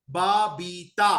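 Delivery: slow बाबीता; sounding out बाबीता. Shown as a demonstration. Teacher shows the good sound in बाबीता. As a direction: stretch बाबीता from बा. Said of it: "बाबीता वाला बा".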